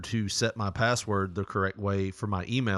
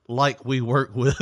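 slow mimicry; 4 dB louder, slower than usual. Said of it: "how he started with".

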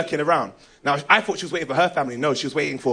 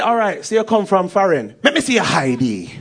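Jamaican policeman. Acted. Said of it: "One policeman come out of the bush".

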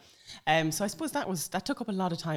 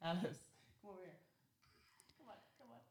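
softly coaxing; 2 semitones higher, 16 dB quieter, faster than usual. Real, not acted. Mother calling toddler over softly.

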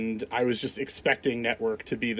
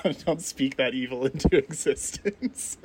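laughing. Real, not acted. Laughing reply.

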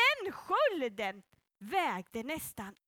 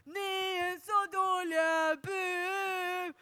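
a lighter, slower replay of the giant's mockery; Goliath taunting again; much slower than usual. Goliath calls out again to the Israelites: a milder mocking taunt. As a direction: tease them half-heartedly, like a giant calling out. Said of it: "Då ropar Goliat så där".

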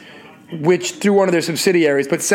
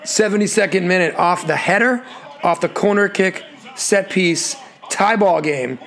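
play-by-play. Acted. Calls the goal recap.

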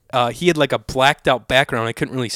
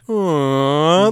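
freaking out; 3 semitones higher, 3 dB louder than usual. Retold or imitated. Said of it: "like, freaking out".

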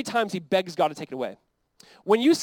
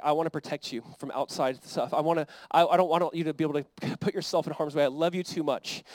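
lower, softened protective plea; tender reassurance; 4 semitones lower than usual. Acted. God explaining his protection to Israel, tenderly. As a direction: speak as a loving father shielding a child.

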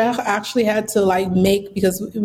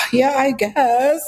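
reluctant agreement; 4 semitones higher, slower than usual. Retold or imitated. Weary reply to UPS guy.

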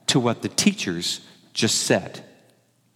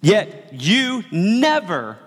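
sulky tantrum; 4 semitones higher, slower than usual. Acted. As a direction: drag out "never" like a wronged son. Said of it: "He's throwing a tantrum".

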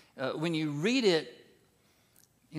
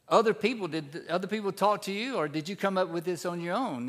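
lightly voiced Jesus; 3 semitones higher, faster than usual. Preacher retelling Jesus' reply to Pilate. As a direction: press Pilate back with the question. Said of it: "he says".

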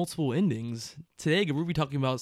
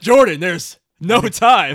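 mock drawl; 3 semitones higher, 12 dB louder, much slower than usual. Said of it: "You're like".

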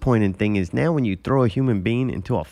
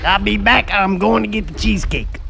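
Mike Tyson impression; 5 semitones higher than usual. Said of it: "How did it become Mike Tyson?".

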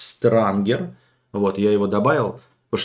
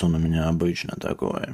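low voice; 6 semitones lower, 5 dB quieter than usual. Shown as a demonstration. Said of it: "не корчу голос".

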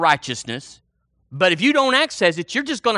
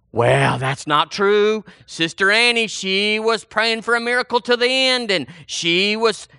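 mock objection; 2 semitones higher than usual.

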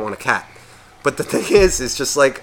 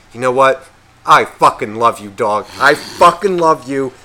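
loud, emphatic declaration of love; gushing dog owner; 5 dB louder than usual. Acted. Owner kneels to his dog, loudly gushing. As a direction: gush at the dog, hitting each phrase hard.

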